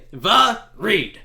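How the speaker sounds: "the reed" slowly split into two separate sounds; syllable by syllable. Shown as a demonstration. Player showing how a name is pronounced, slowly split. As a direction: break "the reed" in two, drawn out. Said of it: "where does the accent go?".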